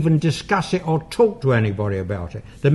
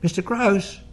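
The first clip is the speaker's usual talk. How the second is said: imitating Janet's whistling voice; 5 semitones higher, 4 dB quieter than usual. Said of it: "she whistled".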